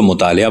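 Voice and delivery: مطالعہ said as mutaaleya, with full ain; مطالعہ with the ain vowel voiced out; variant pronunciation. Shown as a demonstration. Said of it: "مثال کے طور پر لفظ مطالعہ".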